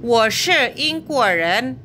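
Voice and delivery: slow careful "Wo shi ying guo ren."; Mandarin model answer. Shown as a demonstration. Teacher models the answer "Wo shi ying guo ren.". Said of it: "Saya orang Inggris".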